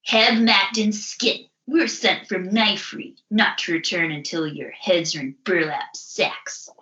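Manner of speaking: npc threat. Acted. S0 voices bounty hunter NPC.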